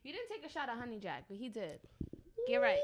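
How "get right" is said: sudden high yelp; high shout. Real, not acted. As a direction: yelp it out to hype. Urging a shot.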